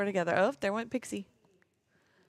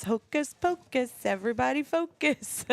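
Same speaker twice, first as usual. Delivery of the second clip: kindergarten teacher voice; 6 semitones higher than usual. Retold or imitated. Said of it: "being a teacher".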